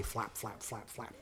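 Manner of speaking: very soft, low flaps dying away; fading wingbeats. A narrator's reading. Storyteller sending the crow into the sky, fading softly. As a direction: fade each word into the distance.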